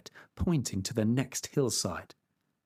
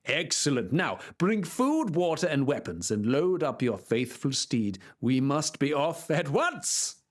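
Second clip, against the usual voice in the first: knight voice. Acted. Knight commands squire.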